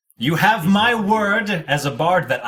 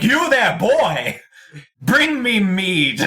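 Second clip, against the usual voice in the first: booming demand, high and loud; barbarian; 7 semitones higher, 4 dB louder, much slower than usual. Acted. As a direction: call out like a rowdy barbarian. Bard calls out to altar boy.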